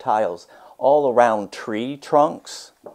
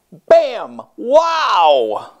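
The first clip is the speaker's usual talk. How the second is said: much higher, louder bursts of wonder; excited exclamations; 11 semitones higher, 8 dB louder than usual. A narrator's reading. The narrator shows the paint hitting the wall, excited outburst. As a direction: throw out each word with delight.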